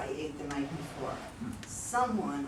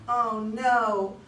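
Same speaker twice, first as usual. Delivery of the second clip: loud, high dismayed cry; dismayed panic; 5 semitones higher, 6 dB louder, slower than usual. Acted. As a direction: realize the damage, alarmed. Wife realizes her mistake.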